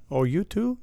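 mock Asian accent. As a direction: put on a badly faked Asian accent. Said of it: "that was my Asian accent".

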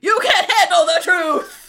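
loud furious retort; shouting. Acted. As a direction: yell it like Jack Nicholson. Movie quote shouted back.

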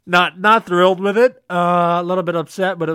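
mock upset. Mock upset over small trophy.

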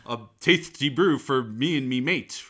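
hammy Renaissance-fair bellow; loud sassy barmaid calls. Retold or imitated. Hammed-up medieval speech to waitress.

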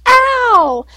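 sharp high yelp of pain. Retold or imitated. Mother retelling daughter's yelp as the door closed. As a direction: yelp like the door just caught you. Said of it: "So she's, of course, like".

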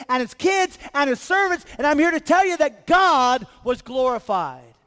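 rising preacher's call; preaching. Acted. Pastor stirring the church, preaching with building force.

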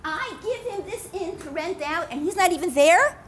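furious. Acted.

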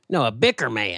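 "bicker" punched to correct a mishearing; correcting, with weight on "bicker"; stress on bicker. Acted. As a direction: hit the word "bicker" firmly. Correcting the misheard wicker man.

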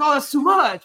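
high, loud imitation of dismay; mock shocked reporter. Translating the reporter's shocked reaction.

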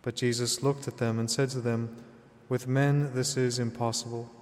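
solemn, measured scripture proclamation; Gospel reading. Acted. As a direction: proclaim it as at Mass.

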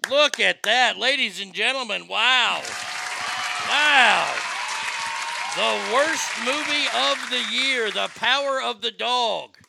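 loud, drawn-out mock-ceremonial announcement; mock award announcer. Host reveals the worst movie winner to the audience, mock-grand announcement. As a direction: proclaim it to the crowd like an awards host.

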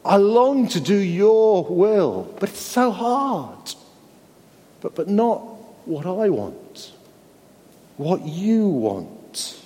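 a son begging his father in Gethsemane; Jesus crying out in anguish. Acted. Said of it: "he cried out".

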